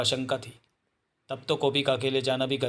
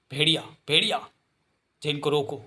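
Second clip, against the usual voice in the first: urgent calling; 2 semitones higher than usual. Acted. Character calls out to Bhediya.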